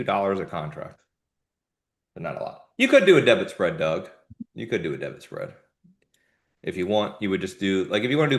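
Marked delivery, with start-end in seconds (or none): 2.8-4.1 firm answer. Real, not acted. Answering Doug's question in chat. 4.5-5.5 softer repeat. Real, not acted. Repeats answer to Doug.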